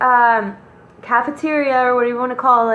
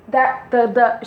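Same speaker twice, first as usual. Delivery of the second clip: imitating a speechless, stammering friend; halting false starts, as if unable to get words out; zszokowane jąkanie. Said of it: "she couldn't even speak".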